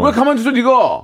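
high, exasperated mock scolding; 답답해함. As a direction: demand why they just sit there. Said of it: "화내지 않는 사람을 답답해해요". (높은 음으로 답답하다는 듯 다그침)

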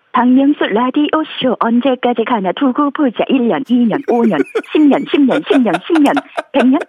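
robotic early AI voice; old AI voice. Acted. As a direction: speak like a glitchy old AI. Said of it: "에이아이 구 버전 초창기 모델". (초창기 AI 목소리)

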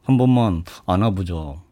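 very low, soft, husky leading-man voice; Won Bin impression. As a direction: murmur it low and tender like the movie hero. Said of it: "아저씨에서 그 대사".

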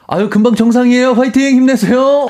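high, loud cheering; cheery cheering. Retold or imitated. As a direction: cheer on young hikers. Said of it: "외쳐주는".

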